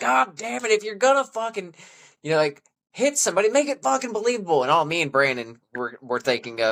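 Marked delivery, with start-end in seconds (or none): 0.0-4.6 mock furious, high-pitched yelled rant. Recalling a man yelling at them during the first round, retelling an angry yell. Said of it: "he's yelling at us".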